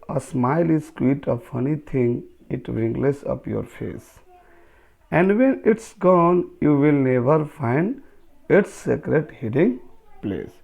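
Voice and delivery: slow, drawn-out poem reading; poem recitation. Acted. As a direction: read the verse out very slowly, word by word. Reads the poem aloud, slowly. (कविता का धीमा, ठहर-ठहर कर पाठ)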